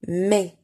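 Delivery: MAIS with a short, closed E, like "mé". Shown as a demonstration. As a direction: say MAIS as a tight, short "may" without a glide. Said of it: "donc, le son fermé". (MAIS prononcé « mé », é fermé)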